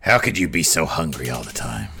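lightly voiced nagging boss; mock berating boss. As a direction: tease a co-host in a mock boss scolding. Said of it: "He would berate us".

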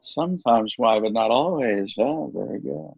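lightly voiced, bumbling Goldblum; a hint of Goldblum's halting ramble; Jeff Goldblum impression. A light Goldblum bumbling about his favourite letter. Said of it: "it's the bumbling around".

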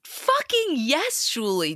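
high, drawn-out cheer; excited cheer. Real, not acted. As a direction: cheer it out with delight. Cheering friend's speech.

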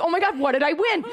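high, quick pretend thrill; mock excited winner. Imagined sweepstakes winner at the door, hammed-up excitement. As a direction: squeal it like a gullible prize winner.

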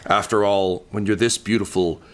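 mock the hero, then bellow the boast; monster's retort. Undead monster boasting back at the hero, rising to a shout. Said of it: "She says".

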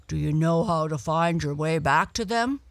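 the dog, gently curious; lightly voiced dog. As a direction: Don the dog asking with interest. Don asks Blackie.

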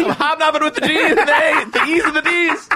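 squealing the line through laughter; can barely get the words out for laughing; laughing through a quote. Retold or imitated. Retelling a Kramer line to a friend, laughing. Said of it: "He's like".

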